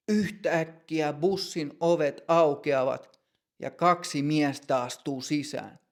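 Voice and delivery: usual speaking voice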